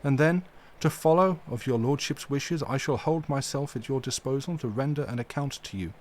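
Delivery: mildly stern, firm and deliberate; a touch of stern gravity in the old professor; grave and stern. Acted. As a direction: hold your ground with dignity. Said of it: "said gravely and sternly".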